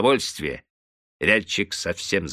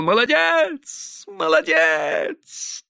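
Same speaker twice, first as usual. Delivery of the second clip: high, slow drawn-out shout; excited shout; much slower than usual. A narrator's reading. Yakov crying out wildly after the song, high shout. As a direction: yell it like a madman carried away. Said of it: "закричал".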